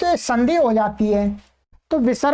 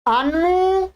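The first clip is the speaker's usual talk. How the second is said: dictation. Shown as a demonstration. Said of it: "बाईस उपसर्गों को लिखिएगा क्रमानुसार".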